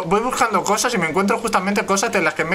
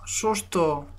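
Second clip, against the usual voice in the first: mock scared yelps; 4 semitones higher, 4 dB quieter, much slower than usual. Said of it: "y hago".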